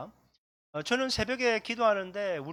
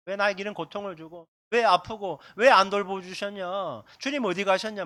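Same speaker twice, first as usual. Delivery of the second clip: complaining; 5 dB louder than usual. Retold or imitated. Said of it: "원망하고 불평하게 되는 거죠".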